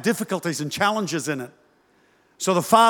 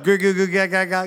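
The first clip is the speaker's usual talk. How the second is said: imitated cooing to a baby; mock baby-talk babble; mother's baby talk. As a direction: babble like a mum to her infant. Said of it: "mom's going".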